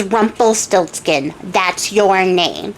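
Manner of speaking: very drawn-out, measured delivery; mock-triumphant pronouncement, stretched out; slow, deliberate reveal. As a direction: savor every syllable, acting the triumphant queen. Queen triumphantly names the little man.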